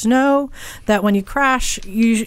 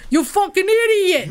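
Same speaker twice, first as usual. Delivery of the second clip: retold insult yelled high and slow; hamming up the angry drivers shouting at him; mock angry yell; 9 semitones higher than usual. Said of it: "they go like".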